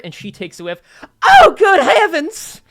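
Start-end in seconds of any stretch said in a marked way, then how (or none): 1.2-2.6 high, loud, slow shocked cry; shocked gasp. Acted. Waitress smells the bad wine, horrified. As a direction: reel back from the stench.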